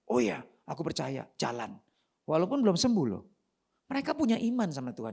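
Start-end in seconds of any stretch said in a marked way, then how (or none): 0.1-1.8 calm acceptance. Acted. Acted believing lepers obey calmly.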